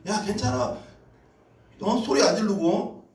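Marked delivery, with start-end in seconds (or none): none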